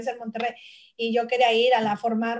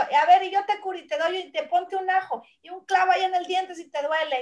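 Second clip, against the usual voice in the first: grandfather's voice; 6 semitones higher than usual. Retold or imitated. Voicing grandfather healer.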